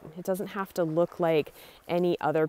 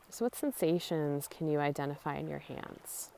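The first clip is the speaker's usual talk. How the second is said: calm, softened guiding voice with long pauses; guided meditation; 3 dB quieter than usual. Real, not acted. Guide leading listeners through a body scan at the beach, calm meditation voice. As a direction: ease them through a body scan, unhurried.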